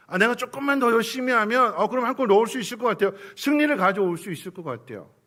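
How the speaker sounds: high, loud and pushing, sure he can score; eager striker. Retold or imitated. Preacher voicing a striker sure he will score, eager and loud.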